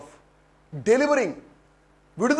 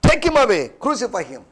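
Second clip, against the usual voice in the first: short raised cries, falling off at the end; retold crowd cry; much slower than usual. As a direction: call out the mob's demand. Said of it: "But they cried out".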